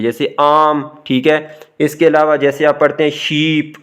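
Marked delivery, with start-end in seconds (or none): 0.4-0.8 आम with a long aa; long vowel. Shown as a demonstration. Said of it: "जिनकी आवाज़ लंबी होती है". 3.1-3.7 शीप with a lengthened ee; long vowel. Shown as a demonstration. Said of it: "यहाँ पे आवाज़ लंबी हुई है".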